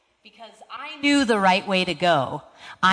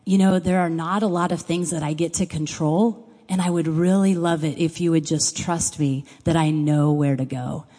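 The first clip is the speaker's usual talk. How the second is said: gracious and gentle; 3 semitones lower than usual. Retold or imitated. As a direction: gently ask her to trust him. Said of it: "very graciously leaning over".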